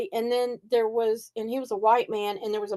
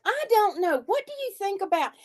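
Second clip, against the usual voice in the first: mock dithering; 8 semitones higher than usual. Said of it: "people are standing around going".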